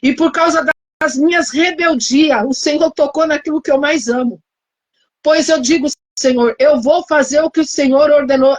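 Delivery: imitating her desperate prayer at the hospital; retold tearful prayer. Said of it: "comecei a chorar e falar".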